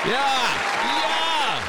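high, hammed-up cheer; fake enthusiasm. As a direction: overdo the excitement on purpose. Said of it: "That's some fake enthusiasm".

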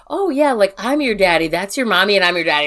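imitated creepy dog-daddy talk, starting high; mock a creepy man cooing at a dog; creepy visitor. Visitor joking to my dog about being its daddy, mock creepy. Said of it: "it was so fucking creepy".

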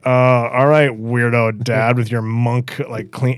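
low, slow mock teen; unimpressed teenager. Teenage son humours dad's coffee ritual, imitated as unimpressed. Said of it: "kinda like a fourteen-year-old teenager".

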